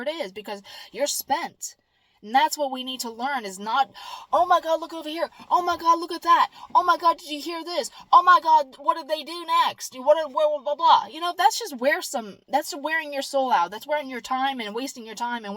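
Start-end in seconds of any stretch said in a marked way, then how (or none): 4.3-11.1 higher, hurried mock gossip chatter; mock gossip frenzy. Mocking people hooked on bad news, breathless gossip. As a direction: gush like someone hooked on drama.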